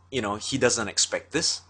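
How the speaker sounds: ordinary talk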